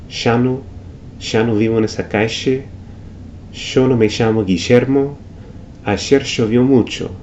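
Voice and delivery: ya no me llamo Guillermo with ll hissed like sh in shoe; llovió said shovió; sh sound. Shown as a demonstration. Teacher showing the sh River Plate sound. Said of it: "like the S H in the English word shoe".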